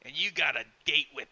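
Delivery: lightly voiced doll threat.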